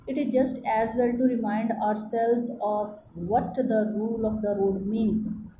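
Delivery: slow, word-by-word reading aloud to a class; careful classroom dictation. Acted. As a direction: read it out slowly so pupils can follow. Teacher reads English text aloud.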